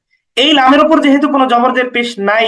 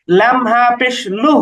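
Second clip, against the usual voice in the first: slow spelling; slower than usual. Shown as a demonstration. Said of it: "এইভাবে উচ্চারণ করতে হবে".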